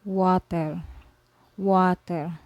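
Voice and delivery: water said the Spanish way, wah-tehr; Spanish word. Shown as a demonstration. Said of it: "For example".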